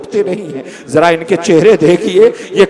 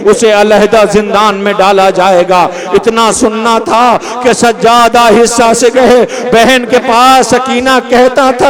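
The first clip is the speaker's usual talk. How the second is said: lament recitation. Acted. Preacher to mourners, swelling lament recitation. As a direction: let it swell toward the climax.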